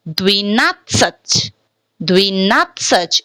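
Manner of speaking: slow "Dvinatsach" with "dvi" for "dve" and stressed "nat"; short "i" in the first syllable of "Dvinatsach", said slowly; reduced YE pronunciation. Shown as a demonstration. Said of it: "this word is pronouncing as Dvi".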